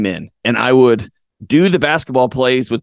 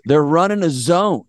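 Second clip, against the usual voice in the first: player's report; 4 semitones higher than usual. Retold or imitated. Player first tells coach the news.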